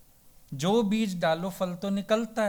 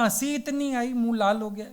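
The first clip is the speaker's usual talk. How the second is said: fake cheerful excuse; 5 semitones higher than usual. Friend covers up his beating.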